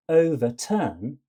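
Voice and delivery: "overturn" strong, light, strong; weight the first and last syllables of "overturn"; cretic stress. Shown as a demonstration. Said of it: "with a cretic tract".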